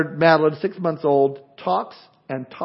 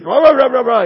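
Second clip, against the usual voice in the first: loud, high mock ranting at someone; angry ranting; 7 semitones higher, 7 dB louder than usual. An angry person yelling at the pastor, mock loud rant. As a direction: bluster like a red-faced accuser. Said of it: "and all angry and".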